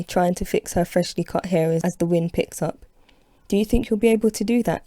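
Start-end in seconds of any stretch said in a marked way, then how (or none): 3.5-4.8 hopeful. Acted. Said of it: "she asks hopefully".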